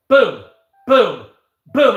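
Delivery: punchy loud boom, boom, boom; explosion booms. Retold or imitated. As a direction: slam each boom out like a blast. Imitating explosions in the video.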